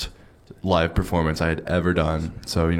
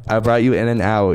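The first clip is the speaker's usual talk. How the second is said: light friend impression, slightly higher; imitating Shrew; 3 semitones higher than usual. Retelling Shrew's food offer, light impression. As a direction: playfully copy Shrew's offer. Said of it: "Keep doing your Shrew voice".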